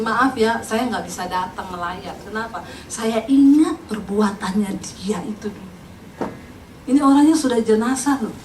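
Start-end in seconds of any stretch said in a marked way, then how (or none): 0.0-5.7 low, subdued excuse from a neighbour; quietly refuse, dragging out the grievance; onwillige buur. Retold or imitated. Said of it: "tetangga itu ngomong gini".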